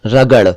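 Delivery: रगड़ ending in a flapped ड़ sound; correct flap. Shown as a demonstration. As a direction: finish रगड़ with a tongue flick. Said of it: "पहले र, फिर ग और फिर ड़".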